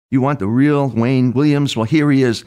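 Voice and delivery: retold yelling. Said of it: "then starts screaming and yelling".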